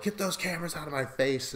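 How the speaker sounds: quick, high mock diva outburst; a light, hammed-up diva snap at the cameras; imitating a diva. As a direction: toss it off like a reality-show diva. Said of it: "She even does the classic".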